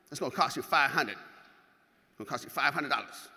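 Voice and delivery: lightly imitated Mississippi coach; name the price in a lightly borrowed coach voice; a hint of a Mississippi bodybuilder; Patrick Lynn. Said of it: "His voice goes exactly like this".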